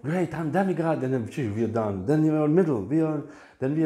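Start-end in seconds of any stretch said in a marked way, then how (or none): 0.0-1.0 mock boast. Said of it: "we think".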